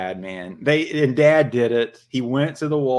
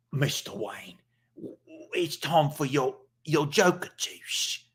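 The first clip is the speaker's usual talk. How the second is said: softly coaxing servant; mock butler voice; 2 semitones higher, 4 dB quieter than usual. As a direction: gently nudge your master toward bedtime. Servant coaxes Batman in skit.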